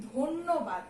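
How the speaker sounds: ধন্যবাদ said as dhonnobad with a doubled n; ধন্যবাদ with an o after dh, dhonnobad; model pronunciation. Shown as a demonstration. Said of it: "এটার আমি উচ্চারণ করি কি".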